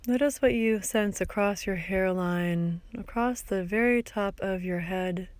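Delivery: calm guiding voice with long pauses; guided meditation. Acted. Teacher guiding listeners through a body scan, calm meditation voice. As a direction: gently lead a body scan, leaving space between phrases.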